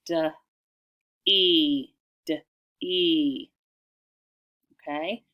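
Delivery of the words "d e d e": "D, E, D, E" as duh, ee, twice over; short "D", gap, long firm "E", repeated; sounding out. Shown as a demonstration. Teacher repeating first syllable, "D, E" sounded separately. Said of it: "do that first syllable again".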